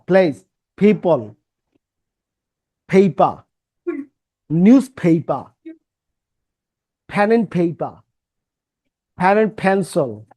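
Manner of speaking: Place, people, paper with a puff of air on each p; breathy aspirated p in Place, people, paper. Shown as a demonstration. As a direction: pop every p with breath. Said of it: "Pa, pa".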